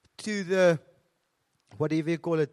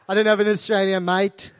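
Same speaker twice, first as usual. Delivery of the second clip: mock Aussie accent, leaning on "mate"; badly faked Australian accent; 4 dB louder than usual. South African trying to pass at customs, put-on Australian accent. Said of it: "I try and be Australian".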